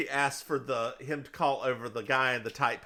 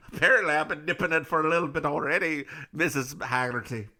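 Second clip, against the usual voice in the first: quick, comic Scottish brogue; mock Scottish aside; Scottish accent; faster than usual. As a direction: rattle it off as a tipsy put-on Scot. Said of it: "he's Scottish instead of Irish".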